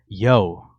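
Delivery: put-on light Brooklyn accent, casual "yo". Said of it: "I gotta put up my Brooklyn accent".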